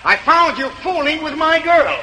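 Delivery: mock-accuse him; jealous accuser. Birthstone mate accusing a rival over his girl, lightly voiced.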